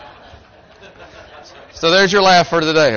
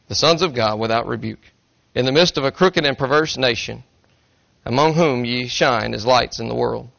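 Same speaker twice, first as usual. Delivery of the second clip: measured, solemn King James reading; scripture reading. Acted. Pastor reading Philippians to the congregation, solemn scripture reading. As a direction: read Paul's words with gravity.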